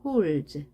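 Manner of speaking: "holds" closed with a single voiced dz; merged dz ending. Shown as a demonstration. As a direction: end "holds" on a fused, buzzing dz. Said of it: "디에스가 합쳐져서 z". ("holds" 끝을 홀즈처럼 즈로)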